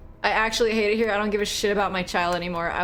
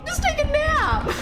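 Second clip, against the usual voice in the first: squeaky high coo; slower than usual. Acted. Speaking to the dying dog.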